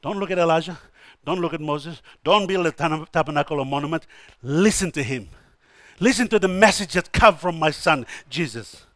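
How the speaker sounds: low, soft voice of God; quietly steer them back to listening; hushed divine counsel; gentle instruction. Retold or imitated. Voicing God gently correcting Peter.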